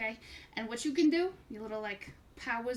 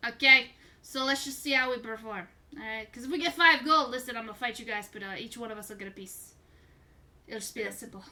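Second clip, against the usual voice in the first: carnival barker; 5 dB louder than usual. Acted. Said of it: "Why do you sound like a carnival barker".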